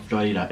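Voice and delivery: Florida with a Spanish r and ee. Shown as a demonstration. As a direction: say Florida the Spanish way, Flo-ree-da. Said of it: "It's a Spanish colony".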